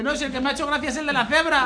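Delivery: high, loud and fast, laughing through it; laughing punchline. Acted. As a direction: blurt out the punchline while cracking up.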